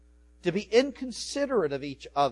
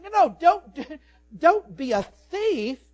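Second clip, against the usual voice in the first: preaching loud; 10 semitones higher, 12 dB louder, slower than usual. Acted. Preaching Paul's words loudly.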